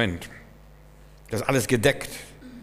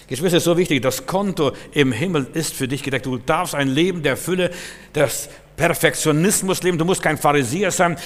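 louder, higher exhortation; fervent preaching; 5 semitones higher, 5 dB louder than usual. Real, not acted. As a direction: rouse the congregation. Preacher building to climax.

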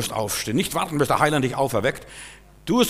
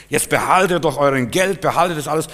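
Judas' outburst; 3 semitones higher, 6 dB louder than usual. Retold or imitated. Judas throws back the money.

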